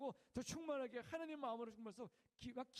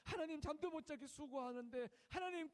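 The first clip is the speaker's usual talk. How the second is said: louder, earnest intercession; praying for soldier; 3 semitones higher, 5 dB louder than usual. Retold or imitated. Chaplain holding a soldier's hand, earnest loud prayer. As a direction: pray warmly over him. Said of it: "그 손잡고 기도한대".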